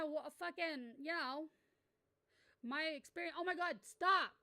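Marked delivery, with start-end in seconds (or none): 3.4-4.3 flustered. Real, not acted. Flustered by compliment.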